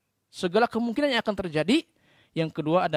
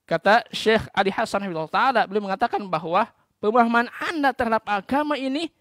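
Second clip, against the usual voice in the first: normal talking voice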